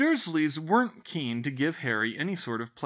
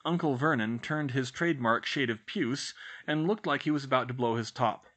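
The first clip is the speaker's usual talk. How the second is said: ordinary delivery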